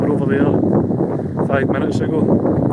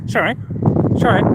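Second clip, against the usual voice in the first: mock "sorry?"; 7 semitones higher than usual. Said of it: "didn't catch it".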